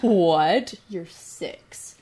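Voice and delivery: startled "What?", then dropping to a breathless aside; lightly acted shocked mom; mock disbelief. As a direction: play a mother caught off guard. Mom reacts to daughter's question.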